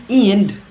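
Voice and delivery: "end" said with a high vowel, like "ind"; West Midland ending. Shown as a demonstration. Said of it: "in the West Midland".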